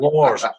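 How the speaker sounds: Wars said loud with a falling stress; emphatic Wars. Shown as a demonstration. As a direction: punch Wars loud, mock-correcting yourself. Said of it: "Fuck me".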